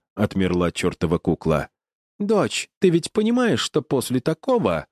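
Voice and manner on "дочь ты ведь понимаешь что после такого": high, mock-sweet growl of a mother. A narrator's reading. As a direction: threaten like a doting mum gone sour. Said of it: "прорычала любящая мамуля".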